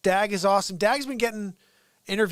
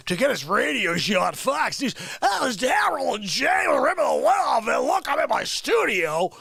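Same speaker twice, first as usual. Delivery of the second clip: excited shouting; 6 semitones higher, 6 dB louder than usual. Real, not acted. Excited shouting about the show.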